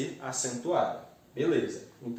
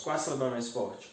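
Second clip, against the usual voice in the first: ordinary delivery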